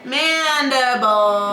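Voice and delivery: Mandible said slowly, syllable by syllable; slow careful pronunciation. Shown as a demonstration. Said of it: "It's the mandible".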